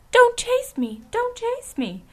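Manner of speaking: very high, panicked little cry; frightened little voice. A narrator's reading. China princess fleeing Dorothy, frightened little voice. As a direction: plead in a tiny, scared, high-pitched voice. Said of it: "She had such a frightened little voice".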